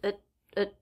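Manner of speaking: soft, quick "It" with a held T; reduced at, stop T. Shown as a demonstration. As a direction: clip the T quietly. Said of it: "so the T will be a stop T".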